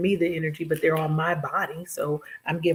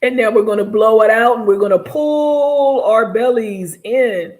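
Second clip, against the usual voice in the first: loud, higher, hammed-up exhale coaching; dramatic breathing cue; 6 semitones higher, 7 dB louder than usual. Shown as a demonstration. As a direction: push the air out big and theatrical. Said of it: "That was a very dramatic breath".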